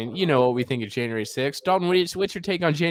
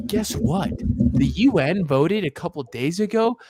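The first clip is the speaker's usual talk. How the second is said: mock Austrian movie star voice; hint of Arnold's accent; lightly voiced Arnold impression; 3 semitones higher than usual. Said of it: "he says my favorite part".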